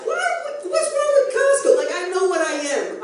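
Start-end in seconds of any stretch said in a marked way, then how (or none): 0.1-1.7 high, indignant protest; mock indignant. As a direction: play the offended shopper.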